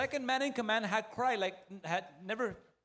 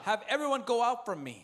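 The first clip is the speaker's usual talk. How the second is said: exclaimed command; 3 semitones higher, 4 dB louder than usual. Acted. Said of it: "And he cried".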